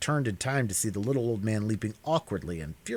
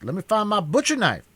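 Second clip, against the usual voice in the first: high, loud furious shriek; 12 semitones higher, 6 dB louder than usual. Acted. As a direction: shriek it at him, beside yourself. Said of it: "man shrieked".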